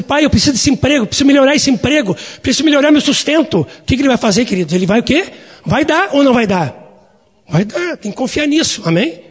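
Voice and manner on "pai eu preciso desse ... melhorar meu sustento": urgent mock prayer.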